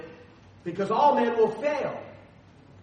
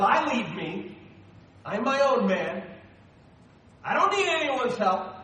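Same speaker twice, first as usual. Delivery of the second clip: louder, mock-boastful I'm my own man; proud self-reliance; 4 semitones higher, 4 dB louder than usual. Pastor mocking a self-reliant man with mild swagger. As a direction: puff up like a proud loner. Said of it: "instead of".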